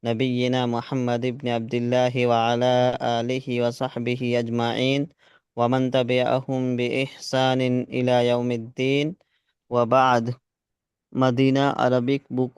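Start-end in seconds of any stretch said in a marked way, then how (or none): 0.1-10.3 formal religious recitation before class; Arabic opening invocation. Acted. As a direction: recite the Arabic praise steadily, like a khutba opening. (अरबी में दुआ का पाठ)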